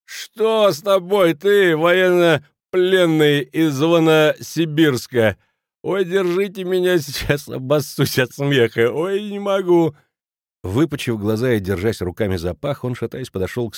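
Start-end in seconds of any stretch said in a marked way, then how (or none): 0.0-9.9 high, slow hooting jeer; mock guffawing. A narrator's reading. Kraner mocking the fallen drunk, laughing. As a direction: roar it as if dying of laughter. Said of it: "дико заржал".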